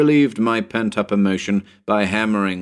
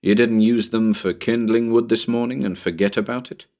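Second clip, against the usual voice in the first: mildly sarcastic question; a touch of mock suspicion; 2 semitones higher than usual. Narrator questions Bill about the shingles, mildly sarcastic. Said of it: "I asked Bill sarcastically".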